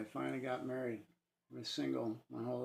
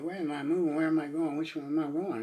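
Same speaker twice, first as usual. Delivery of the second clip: louder urgent panicked questions; frightened questions; 2 semitones higher, 6 dB louder, faster than usual. Retold or imitated. Man sensing himself falling, asking in alarm. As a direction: ask it in rising alarm.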